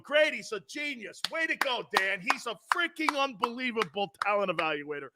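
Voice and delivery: mock fans. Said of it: "Philly Eagle fans are going".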